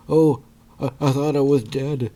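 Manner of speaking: high, loud mock-dazed voice; Wesker going crazy. Vlogger imitates Wesker waking up blind, high mock panic. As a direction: play a hammed-up man in a panic. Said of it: "And he's going crazy".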